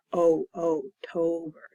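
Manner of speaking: isolated "oh, oh", then TOBER with long O; teacher demonstrating O saying its name. Shown as a demonstration. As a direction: sound out long O before TOBER. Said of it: "There's that long O".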